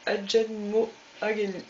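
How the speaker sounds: slow, halting English with a French accent; English accent attempt. Real, not acted. Crafter reading an ink colour name to viewers, attempted English accent. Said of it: "Désolée pour mon superbe accent anglais".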